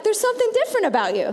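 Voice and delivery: high, quick, lilting compliment; right way to say it. Shown as a demonstration. Preacher modeling for the congregation how to greet a neighbor, high and lively. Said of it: "Say it like".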